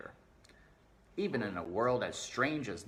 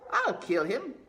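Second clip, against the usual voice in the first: high, loud threat; shrieked threat to kill; furious shout; 9 dB louder than usual. Acted. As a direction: yell it with the knife raised. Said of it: "shouted Meg".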